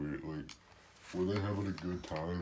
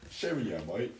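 lightly put-on British accent; mock British accent. Friend echoing the British act, mild mock British accent. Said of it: "Why do you sound like that?".

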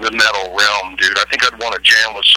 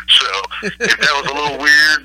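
giggly, whispered aside; half-laughing, breathy confession; 6 semitones higher than usual. Real, not acted. Admits being high, laughing.

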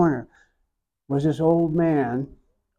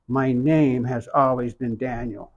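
"My name has always been Daniel" said slowly, each word weighed; slow reverent restatement; slower than usual. Real, not acted. Speaker echoing the priest's words, slow and reverent. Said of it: "That right, that moment".

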